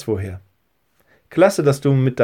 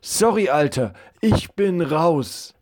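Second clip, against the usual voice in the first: put-on nervous boy friend; 4 semitones higher than usual. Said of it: "so rief Levi seinem Freund zu".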